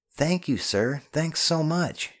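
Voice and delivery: high-pitched, gushing thanks; feigned relief. Acted. Ben thanks the soldier, trying to sound genuinely relieved. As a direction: lay on the relief, drawing out the thanks. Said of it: "trying to sound genuinely relieved".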